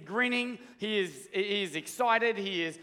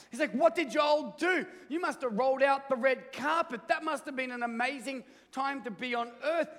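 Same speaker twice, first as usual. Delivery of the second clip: higher, breathless with wonder; begging to hear everything; eager alien; 5 semitones higher than usual. Retold or imitated. Alien pleads with Michael to tell the celebration. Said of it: "blown away".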